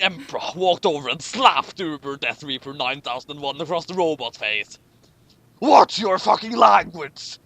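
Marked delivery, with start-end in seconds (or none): 5.6-7.4 slow loud barked order; mock angry command. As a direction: bark it like a stern emperor. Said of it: "he ordered again".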